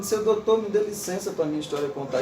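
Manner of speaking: bowing politely to the doctor; humble plea. Retold or imitated. Wrong reading of Patativa as subservient, meek plea. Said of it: "você pensa que ele tá dizendo".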